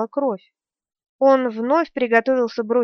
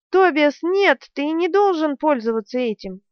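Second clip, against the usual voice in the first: alarmed scream; 5 semitones higher than usual. Acted. Sister screaming as her brother uses magic. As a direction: scream at him to stop.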